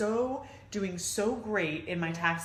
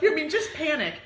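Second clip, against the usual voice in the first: laughing; 10 semitones higher, 8 dB louder than usual. Real, not acted. Laughing while telling of her panic.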